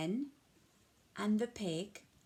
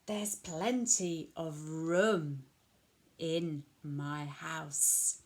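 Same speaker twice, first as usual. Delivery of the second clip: lightly voiced wise old man; 2 semitones lower, slower than usual. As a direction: reassure her slowly like a wise old man. Wise old man's slow advice.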